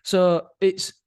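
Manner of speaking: laughing about his wife's jab. Real, not acted. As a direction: still laughing as he speaks. Laughing after wife joke.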